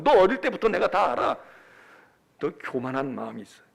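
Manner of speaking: accusing, emphatic scolding; acted big-brother rebuke, punching key words; browbeating older brother. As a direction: bear down on your kid brother. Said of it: "이러고 막 윽박 지릅니다".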